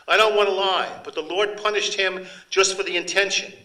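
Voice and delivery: high, loud, desperate plea to the Marquis; impassioned woman pleading. Acted. Accused woman confronting the Marquis, high loud anguish. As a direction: throw the line at him, wounded and loud.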